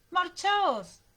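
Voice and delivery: high, loud scream to flee; chillido de alarma. A narrator's reading. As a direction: scream a frantic warning. (grito agudo de alarma)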